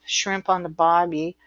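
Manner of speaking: light imitated Australian accent; Australian accent, dropping the R in barbie. Shown as a demonstration. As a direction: try a mild Australian twang. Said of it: "that's why you get the bobby".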